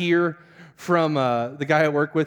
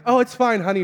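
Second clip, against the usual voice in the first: high, loud brush-off; acted-out casual dismissal; overly breezy reassurance; 7 semitones higher, 5 dB louder than usual. Husband on a fast waves off wife's worry, breezy. Acts himself reassuring his wife.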